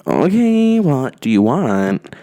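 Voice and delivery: sharp high Okay, then a slow drawn-out question; annoyed. Retold or imitated. Woken woman asking the guy what he wants, annoyed. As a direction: snap awake, irritated and impatient.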